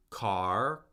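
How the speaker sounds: "car" starting low and sliding up; rising tone. Shown as a demonstration. Teacher shows tone won't change an English word, rising tone. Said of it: "by changing the tone".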